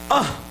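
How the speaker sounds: short, blocked "ah" at ordinary volume; feeble yell attempt. Young man urged to yell harder, feeble attempt. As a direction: imitate a yell that will not come out. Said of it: "네가 힘껏 질러봐".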